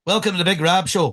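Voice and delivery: lightly imitated Ulster accent; Ulster accent demo. Shown as a demonstration. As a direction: show how to do an Ulster host. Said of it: "a Scottish guy doing an Ulster accent".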